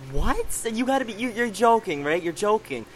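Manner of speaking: high, disbelieving "you're joking"; retold shock. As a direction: relive hearing the news in shock. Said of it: "And I'm like".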